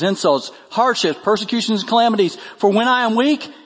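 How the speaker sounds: reading aloud, pitch climbing through the list; emphatic scripture reading. Acted. Preacher reading Paul's boast of weaknesses, emphatic.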